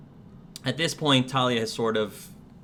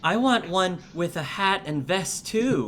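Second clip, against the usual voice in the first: put-on high, far child voice asking; a kid wanting a matching toy; giggly little girl; 8 semitones higher, 3 dB louder than usual. Girl asking mommy for one with a hat, high and giggly.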